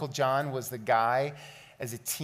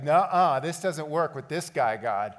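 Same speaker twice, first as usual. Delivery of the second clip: emphatic refusal; 4 dB louder than usual. Retold or imitated. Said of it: "It's like".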